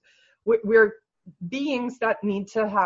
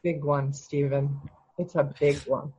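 gentle affirming; 4 semitones lower, 4 dB quieter than usual. Real, not acted. Coach gently affirms his realisation.

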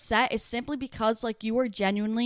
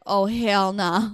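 fed-up drawn-out oh hell nah; 3 dB louder, much slower than usual. Retold or imitated. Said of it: "And I was like".

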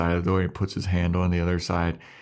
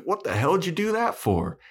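Spike; 11 semitones higher than usual. Acted. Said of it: "and he's like".

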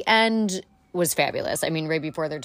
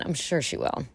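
breathy whispered aside; 8 dB quieter than usual. Real, not acted. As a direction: let it drop to a confiding whisper. Aside about Wendy returning.

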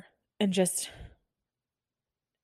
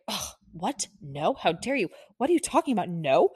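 mock indignation. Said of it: "it's met with such abuse".

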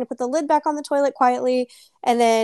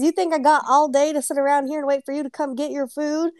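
laughing through the quote; 3 semitones higher than usual. Retold or imitated. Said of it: "The, the old lady says".

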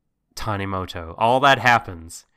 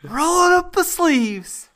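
mock solemn; 5 dB louder, slower than usual. Jokingly getting ready to rant.

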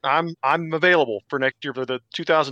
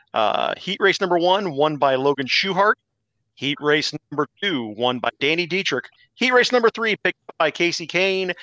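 announcer voice. Acted. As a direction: race results read like a broadcaster. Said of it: "jumped into your, uh, announcer voice there".

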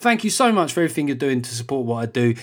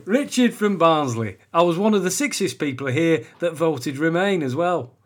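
put-on comic Barnsley accent, pitched up; hammed-up Barnsley voice; 4 semitones higher than usual. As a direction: read it as a man from Barnsley. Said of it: "Sorry for the accent confusion".

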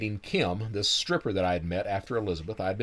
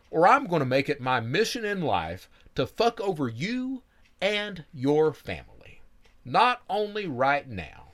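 threatening interrogator; 4 semitones higher than usual. Retold or imitated.

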